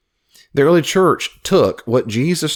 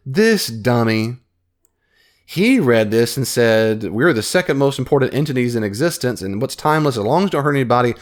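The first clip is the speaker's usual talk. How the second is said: mock smug future reader. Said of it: "I'd read this article and say".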